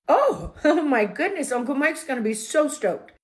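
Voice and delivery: high, loud, laughing delight; overjoyed. Retold or imitated. Traveler told of her husband's refund, overjoyed. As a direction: gush with a stretched-out, delighted oh.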